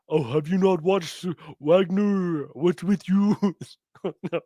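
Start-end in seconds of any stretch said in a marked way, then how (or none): 0.1-3.4 mocking retort. Mocking voice of an opponent.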